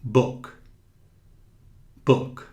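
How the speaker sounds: "Book" with a short quick vowel; short clipped u. Shown as a demonstration. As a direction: keep the vowel in "Book" brief. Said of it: "diferente de livro".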